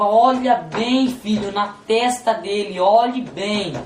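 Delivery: slow, insistent divine instruction; God speaking. Retold or imitated. God pointing the son to the father's forehead, slow and insistent. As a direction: draw out the command, lightly voicing God. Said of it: "E ele falava".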